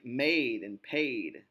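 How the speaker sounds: "maid" and "paid" slow, with a long AY; rhyming long vowel. Shown as a demonstration. Teacher showing spelling against sound, "maid" and "paid" drawn out. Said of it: "pronouncing things a certain way".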